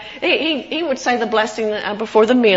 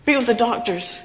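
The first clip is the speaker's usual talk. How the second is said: retold prayer; 3 semitones higher than usual. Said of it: "the S O S prayer".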